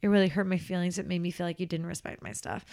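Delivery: measured, gently honest confrontation; kind tone of voice. Shown as a demonstration. Nanny showing how to confront a friend with love, kindly. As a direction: air a hurt kindly and with respect. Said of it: "say it in that tone of voice".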